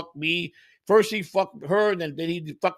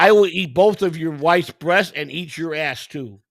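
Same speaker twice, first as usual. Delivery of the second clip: slow put-on Indian-Nigerian accent; mock Indian accent; 6 dB louder than usual. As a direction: imitate the scammer in a wannabe Indian accent. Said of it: "You went to a wannabe Indian voice".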